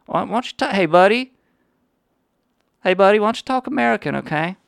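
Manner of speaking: high, fast, jeering loudmouth; obnoxious loudmouth. Acted. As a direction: heckle like a rude tourist. Mocking the German voicemail.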